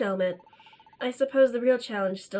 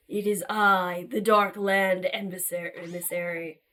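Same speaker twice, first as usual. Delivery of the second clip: villain voice; 6 semitones lower than usual. Acted. Villain emissary introduces himself.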